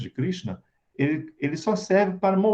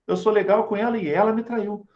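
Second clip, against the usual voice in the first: higher-pitched, mildly indignant self-defence; self-justifying anger; 5 semitones higher than usual. Acted. Betrayed boyfriend justifying his anger to himself, mildly indignant. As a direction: insist on the grievance, with a touch of acted anger. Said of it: "vou me justificar na minha raiva".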